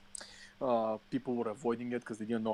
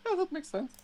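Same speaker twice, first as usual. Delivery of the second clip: sarcastic agreement. Retold or imitated. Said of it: "I was like".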